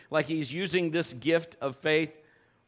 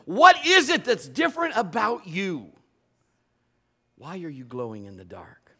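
louder, higher voice of a puzzled onlooker, sinking to a hush at the end; amazed outsider; 5 semitones higher, 6 dB louder than usual. Pretend. The world asking a glowing believer, loud amazed wonder. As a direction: ask it in wonder, then drop almost to a whisper.

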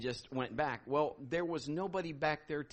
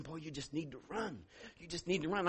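the Lord's voice; 3 semitones lower, 8 dB quieter than usual. Retold or imitated. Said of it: "the Lord's saying".

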